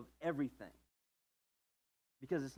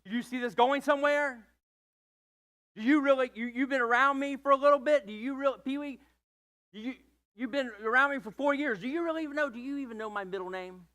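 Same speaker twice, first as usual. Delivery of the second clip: raised, louder pointed questions; pressing partner; 8 semitones higher, 6 dB louder than usual. Retold or imitated. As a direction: push hard for an answer.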